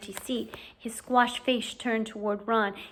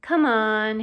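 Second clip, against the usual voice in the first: resentful mutter; 7 dB louder than usual. Acted. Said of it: "he muttered resentfully".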